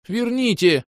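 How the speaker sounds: a second elf joins the demand, high; echoing high demand. Acted. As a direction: back him up in a high cry. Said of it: "поддержал его второй".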